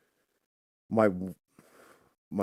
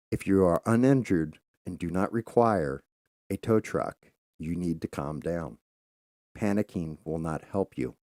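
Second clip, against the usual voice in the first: calm stoic son. Retold or imitated. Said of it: "He just goes very calm, very stoic, very quiet".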